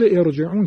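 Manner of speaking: ارجعون recited with a thick R; heavy R. Shown as a demonstration. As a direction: start on ارجعون, keeping the R full. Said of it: "تفخیم".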